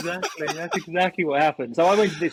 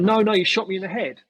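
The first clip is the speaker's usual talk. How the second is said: high-pitched aggrieved imitation; mock insistent protest; 7 semitones higher than usual. Hit player refusing to drop it, mock insistent. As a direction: press the complaint, mimicking him.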